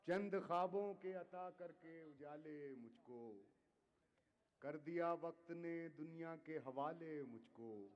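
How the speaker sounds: measured, declaiming poetry to audience; ghazal recitation. Acted. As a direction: recite each couplet with weight. Poet repeats couplets.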